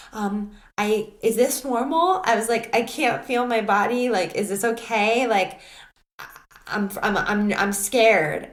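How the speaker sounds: imitating her own frightened pleading to the facilitator; scared pleading. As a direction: plead for reassurance, voice rising.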